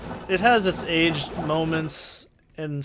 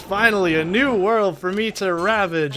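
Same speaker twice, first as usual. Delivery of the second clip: villain teacher gloat; 5 semitones higher, 3 dB louder than usual. Retold or imitated.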